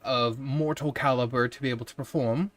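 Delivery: lightly voiced wizard giving praise; a hint of a grand, pleased wizard; praising wizard. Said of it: "and say".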